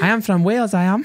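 high-pitched mock Welsh accent; party-piece Welsh accent. Shown as a demonstration. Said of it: "I can do Welsh".

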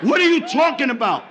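touch of acted exasperation. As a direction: push it a little, still confused. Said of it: "Are you raising your voice?".

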